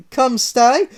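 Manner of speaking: high Italian come sty; Mario greets Sonic, Italian phrase. Acted.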